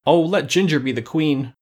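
high-pitched tearful plea; plaintive young protest; ready to cry. A narrator's reading. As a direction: beg as if close to tears. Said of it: "exclaimed Tip, ready to cry".

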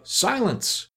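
very high, squawked command; high-pitched cackling call; cackled out. A narrator's reading. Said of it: "cackled out".

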